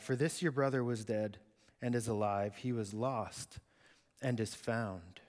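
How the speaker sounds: calm him like a loving dad; gentle father. Acted.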